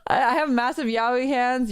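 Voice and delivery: slow boast through a laugh. Pretend. Streamer repeating her joke boast, laughing. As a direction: say it slowly, breaking into a laugh.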